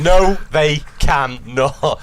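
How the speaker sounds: loud, drawn-out no; loud slow denial. Acted. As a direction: drag it out loudly. Joking denial.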